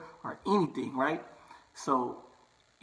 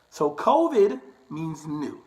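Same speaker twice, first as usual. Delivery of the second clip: covid means new, slowed and louder, COVID hit firmly; slow emphatic stress; 2 semitones higher, 5 dB louder, slower than usual. Shown as a demonstration. Barber drilling the point home to viewers, slow emphatic stress. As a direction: repeat it slowly so it sinks in. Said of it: "repeats the definition for emphasis".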